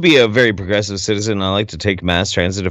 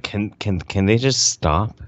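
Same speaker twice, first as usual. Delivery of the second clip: weary mutter; 2 semitones lower, 5 dB quieter, slower than usual. Pretend. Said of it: "Everybody else on the subway is just kinda like".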